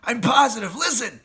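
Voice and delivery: high, loud insistence; tense urgent call. Acted. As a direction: hush them and make them listen. Fox insists in danger.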